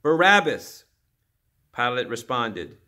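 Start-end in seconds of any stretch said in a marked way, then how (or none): 0.0-0.8 loud, higher one-word shout; demonstrators' shout. A narrator's reading. Demonstrators answer Pilate's question, shouting. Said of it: "The demonstrators shouted".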